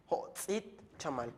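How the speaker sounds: ho tzit chamal drawn out slowly; slow Maya model. Shown as a demonstration. Teacher models the count of five slowly. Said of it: "teacher models Maya phrase".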